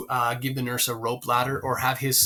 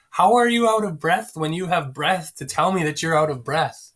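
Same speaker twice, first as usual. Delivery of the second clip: flustered, higher and louder Juliet; 4 semitones higher, 5 dB louder than usual. Retold or imitated. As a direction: blurt it out in a fluster. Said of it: "And Juliet flusters".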